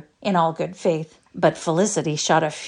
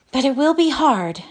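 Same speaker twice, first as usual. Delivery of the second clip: sighing; 8 semitones higher, 4 dB louder than usual. A narrator's reading. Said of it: "she added with a sigh".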